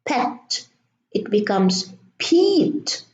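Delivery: pet with short e, then peat with long ee; vowel change demo. Shown as a demonstration. Teacher showing how silent E changes pet. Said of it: "add an E at the end".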